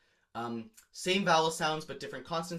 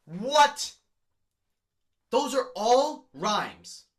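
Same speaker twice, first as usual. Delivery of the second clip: mock amazement; 7 semitones higher, 8 dB louder, much slower than usual. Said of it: "amazed at the color-coded stanza".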